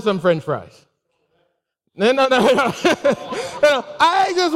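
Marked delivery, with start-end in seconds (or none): none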